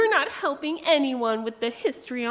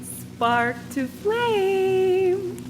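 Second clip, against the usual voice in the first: drawn out very slowly and higher, like a spell; slow incantation; 6 semitones higher, much slower than usual. Acted. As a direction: intone it as a ritual word. Ritual begins, incantation.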